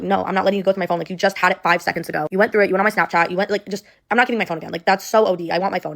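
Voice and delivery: exasperated, emphatic refusal, as retold; indignant retort. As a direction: replay standing your ground in an argument. Retold argument over her phone.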